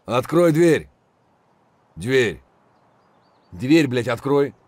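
loud forced whisper-shout; hushed urgent shout. Acted. Soldier demanding teammate open the door, urgent loud whisper. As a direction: demand it through clenched urgency.

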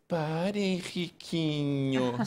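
slow, drawn-out, powerless mother's plea; a mother half-heartedly telling her kid to stop; limp mother plea. Retold or imitated. Mother in the supermarket, a slow feeble plea to her son. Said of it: "a mãe lá".

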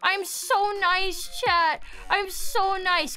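slow, sweet-talking protest; mock innocence. Telling chat she is nice while fighting, slow mock innocence. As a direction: drawl it out all innocent.

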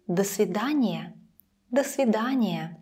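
"до свидания" with до reduced to "duh"; short vowel in до of "до свидания". Shown as a demonstration.

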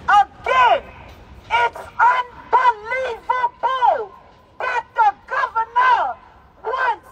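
slow, stretched outcry building to a shout; rising outcry. Real, not acted. A grieving mother at a rally, crying out in outrage. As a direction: drag out unbelievable as the anger climbs.

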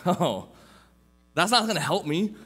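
put-on high, laughing protest of a nervous teen; panicked protest. Young man protesting God's call, high and laughing. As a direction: squeak out the excuses, half laughing.

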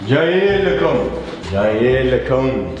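slow, drawn-out taunt; spooky teasing call. Pretend. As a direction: sing it out like a hunter coming.

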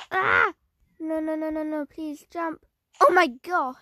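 panicked pleading; panicking gamer. Real, not acted. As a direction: beg it in a panic. Chased by Jeff the Killer.

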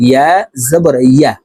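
"ইয়া" with a clear y glide from mid-tongue. Shown as a demonstration. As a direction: raise the middle of the tongue for "ইয়া". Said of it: "ইয়ার উচ্চারণ হবে জিহ্বার মধ্যখান থেকে". ("ইয়া" জিহ্বার মাঝখান থেকে)

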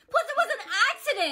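defensive near-yell. Acted. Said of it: "Are you yelling at me right now?".

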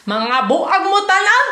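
high loud exclamation. Real, not acted. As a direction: call it out loud.

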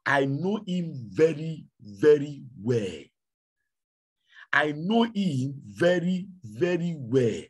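slow, drawn-out devil voice; slow devil gloat. Acted. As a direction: savor each word like a smug devil. Devil gloating over the man.

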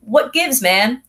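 hammed-up French complaint, up high and fast; mock indignant French. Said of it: "And the French are like".

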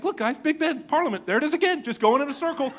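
high-pitched hapless tour-guide dad; Chevy Chase. Acted. Lost dad circling the roundabout with kids, mock cheer. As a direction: point out the sights with strained cheer. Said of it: "Felt like Chevy Chase".

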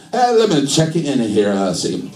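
put-on light comic Italian accent; mock Italian accent; Italian-accented Jesus. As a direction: give it a hint of stand-up Italian. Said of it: "do Jesus in an Italian accent".

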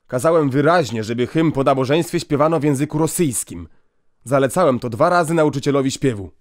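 stern scolding. Acted. Inspector scolds the priest.

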